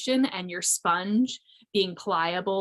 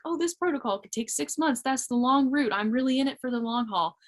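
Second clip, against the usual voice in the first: pitched up higher, a mock-eager planner; mock eager inner voice; 5 semitones higher than usual. Her own mind planning a long protocol, higher mock-eager voice. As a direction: play her old self, sure of the long plan. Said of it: "I was like".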